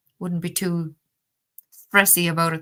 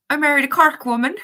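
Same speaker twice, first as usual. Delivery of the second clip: imitating a Cork accent, high and loud; hammed-up Cork lilt; 8 semitones higher, 7 dB louder than usual. Old Navy friend explaining his new accent, in a mock Cork accent. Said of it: "he had this thick Cork accent".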